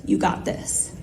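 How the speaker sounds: soft, low encouragement; hushed imitated pep talk; quiet reassurance. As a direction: reassure under your breath. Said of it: "Caleb looks at me and says".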